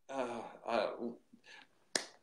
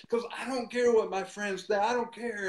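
retold insistence; 5 semitones higher than usual. Boy insisting he doesn't care.

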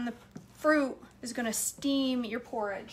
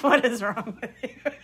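put-on laughing baby voice; 6 dB louder than usual. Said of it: "my nursing baby is like".

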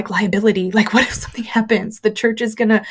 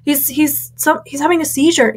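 high-pitched panicked cry for help in a church; panicked shout for help; 8 semitones higher than usual. Retold or imitated. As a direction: call out for help as a boy collapses, pitched way up. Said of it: "I shouted in the middle of the sanctuary".

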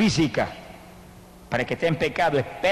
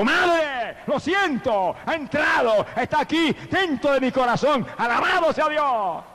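much higher shouted cry, ending slow; shouting cry; 10 semitones higher, slower than usual. Retold or imitated. Repentant son shouts to his dying mother, ecstatic shout. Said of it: "Se sacó un grito".

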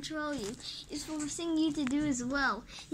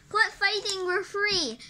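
louder, higher call to stop; raised voice breaking up a fight; 6 semitones higher, 4 dB louder than usual. Acted. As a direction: shout to stop the brawl. Hero breaks up creature fight.

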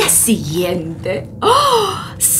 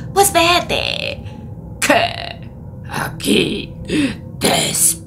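fading to a whisper; sly lion. Acted. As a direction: let it drop off into a whisper. Lion lets her go.

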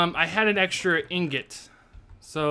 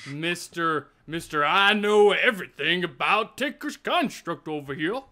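put-on teasing southern accent; mock southern accent. Gamer mocking know-it-all co-player, teasing southern accent. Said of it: "I gave you, like, a southern accent".

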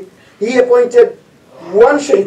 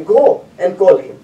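calmly; slower than usual. Acted. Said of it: "but he said calmly".

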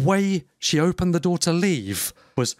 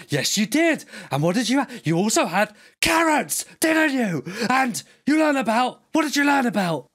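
put-on higher, chirpy mother's voice quizzing her kid; loud sing-song mum; 8 semitones higher than usual. Mocking a loud mum quizzing her kid, high sing-song. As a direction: pitch it up like a mum showing off to the shop. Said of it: "She was like".

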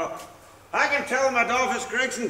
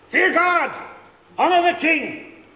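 declaimed scripture; 5 semitones higher, 4 dB louder, slower than usual. Acted. Drunk husband quoting scripture to the lodgers, loud preaching. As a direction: proclaim it louder and slower like a preacher.

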